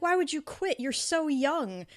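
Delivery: lightly voiced old woman, baffled and fond; mock disbelief from a kindly elder; surprised old reader. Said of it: "And she's like".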